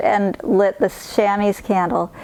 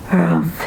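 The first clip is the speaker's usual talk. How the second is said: bear growl; 3 semitones lower than usual. Acted. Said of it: "he growled".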